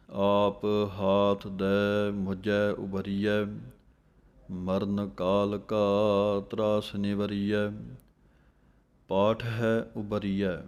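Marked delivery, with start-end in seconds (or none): 0.1-3.4 slow recitation. Acted. 6.5-7.7 slow recitation. Acted.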